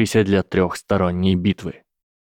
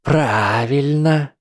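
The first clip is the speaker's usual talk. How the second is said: slow, menacing dark-lady voice; ominous low voice; 6 semitones higher, much slower than usual. Acted. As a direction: loom over them like a villain. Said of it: "низким голосом зловеще заявила Трейси". (зловещим низким голосом)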